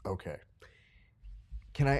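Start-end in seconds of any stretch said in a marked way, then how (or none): 0.1-0.3 whisper. Real, not acted. Reacting to drunk sign-up.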